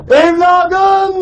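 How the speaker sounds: drawn-out mock wail; imitated mother's wail. Commander imitating soldiers' weeping mother, wailed cry. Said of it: "diye ağlıyor".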